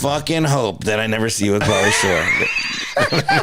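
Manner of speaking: mock threat. Mock threat to co-host, laughing.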